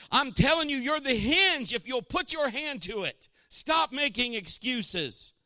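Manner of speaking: high, loud, slow exhortation; fiery preaching. Acted. Pastor demands the church stop making excuses, loud and slow. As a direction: hammer it home from the pulpit.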